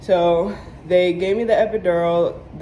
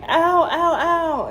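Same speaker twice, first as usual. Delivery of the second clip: high, half-laughing cries of ow; pained ow; 11 semitones higher, much slower than usual. Retold or imitated. Mother waking from surgery, high half-laughing ows. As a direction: whimper ow through a laugh.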